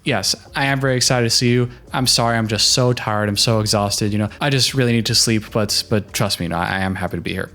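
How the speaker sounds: mean it: tired but loving; sincere and kind. Shown as a demonstration. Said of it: "you could say".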